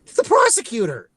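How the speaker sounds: baffled, demanding why the evidence went to the wrong side; incredulous disbelief. Retold or imitated. Recapping the movie, baffled by the plot, high and rushed. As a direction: pitch jumps up, racing through the questions in disbelief. Incredulous retold first reaction.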